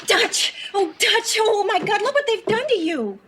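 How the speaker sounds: high, distraught exclamation; horrified wife calling to her jailed husband; anguished cry of dismay. Acted. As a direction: cry out at the sight of him. Wife sees husband behind glass.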